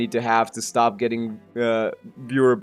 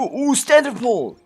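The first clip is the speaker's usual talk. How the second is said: high, loud, drawn-out delight; excited discovery; 11 semitones higher, 5 dB louder, slower than usual. Real, not acted. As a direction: squeal it slowly at a happy find. Delighted surprise at unclaimed pulls.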